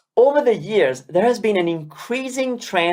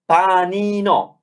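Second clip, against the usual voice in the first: slow careful syllables; slower than usual. Shown as a demonstration. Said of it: "let's pronounce".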